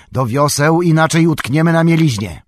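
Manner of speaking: urgent full shout, pitched high; Boromir. A narrator's reading. Boromir warning the rowers of the shallows, shouting. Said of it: "krzyczał Boromir".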